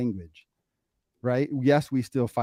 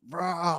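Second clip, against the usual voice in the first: drawn-out, softened mock roar; half-hearted imitation of a meltdown; imitated freakout noise; 6 semitones higher, 4 dB quieter than usual. Imitating a child's anxiety freakout.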